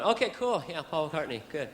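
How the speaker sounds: soft, offhand acceptance trailing down; outwardly cool. Retold or imitated. Guest hears Paul is coming, outwardly cool. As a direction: play it cool, mock-casual. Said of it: "And on the outside".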